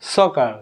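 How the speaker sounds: "সকার" with the R hardly pronounced; slight final R. Shown as a demonstration. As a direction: end "সকার" on an open vowel, R almost silent. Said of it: "slightly".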